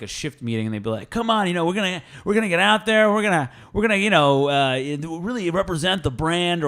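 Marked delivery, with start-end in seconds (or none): 1.1-6.7 lightly voiced cheesy manager, higher; mock pep talk. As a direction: hype the team like a young manager. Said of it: "this twenty-five-year-old douchebag was saying".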